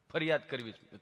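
low, halting with stuck hums; imitated tongue-tied patient; stammering friend. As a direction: struggle into each phrase. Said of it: "જીભ જલાય, સોંટે અટકે".

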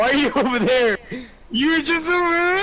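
exasperated yell. Real, not acted. Frustrated at teammate's position.

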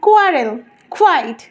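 "কোয়ারেল, কোয়াইট" with unaspirated k; no puff opening "কোয়ারেল" or "কোয়াইট"; wrong qu words. Shown as a demonstration. Teacher shows former habit, dry-k "কোয়ারেল, কোয়াইট". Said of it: "যেগুলো ভুল".

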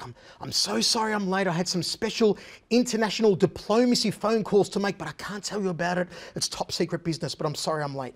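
hushed, secretive apology, a touch mocking; Seagal's half whisper. Host mimicking Seagal's late apology, hushed half whisper. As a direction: murmur it like top-secret business. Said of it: "he speaks in this half whisper".

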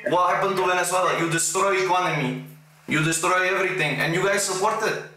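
arguing in a fake Russian accent; put-on Russian accent. Pretend Russian accusing Americans over Venezuela, Russian accent. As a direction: press the argument with a thick Russian accent. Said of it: "I put on my best Russian accent".

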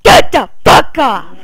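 loud angry yell, pet still on bed; angry shout. Real, not acted. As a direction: shove the words out, fed up and loud.

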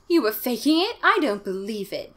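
high, loud disbelief, easing down; acted upset accusation; cried out. A narrator's reading. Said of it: "Diane cried".

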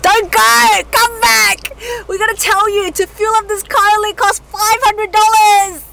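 high, loud Australian holler; sudden Australian accent. Pretend. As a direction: call out urgently in broad Australian. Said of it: "Why did you sound so Australian".

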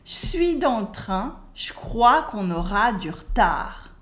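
"Je suis" as "chui", "du retard" as "dur-tar"; spoken French, E cut. Shown as a demonstration. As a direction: model "je crois" as "chcrois". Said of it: "Try to say it".

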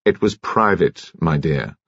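ordinary delivery

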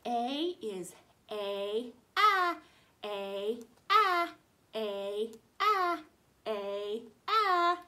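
teacher drilling A sounds; long and short A. Shown as a demonstration. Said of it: "Here we go. It goes".

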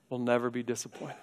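quick, soft reassurance; hushed promise. Acted. Preacher quietly assuring the congregation. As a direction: lean in and reassure them.

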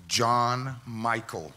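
slow, drawn-out stern call of his full name; stern mom calling. Retold or imitated. Mom calling her son out after the cart crash, slow and stern. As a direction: let each name land slow like a mom who caught him.

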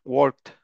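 "worked" as one syllable ending in T; final ED as T. Shown as a demonstration. Teacher giving an example to class, "worked" with ED as T. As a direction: close "worked" on a T sound. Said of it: "pronunciarse como si fuera una T".

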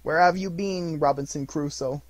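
high, loud, overjoyed rush of memories; between laughing and crying. A narrator's reading. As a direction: gush like a delighted child. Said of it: "voice between laughing and crying".

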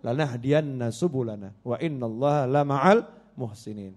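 measured, drawn-out Arabic recitation; Quranic recitation. Acted. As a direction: recite the verse slowly with lengthened syllables. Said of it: "Saya ingat wahyu Allah".

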